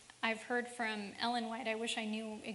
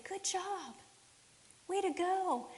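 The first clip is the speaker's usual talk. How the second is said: excited praise; 6 semitones higher, slower than usual. Pretend. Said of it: "got just as excited and said".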